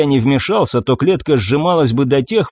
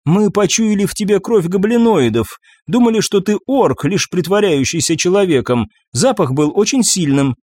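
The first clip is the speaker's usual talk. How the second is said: higher female spirit voice; banshee voice; 5 semitones higher than usual. Acted. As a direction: play the captured banshee.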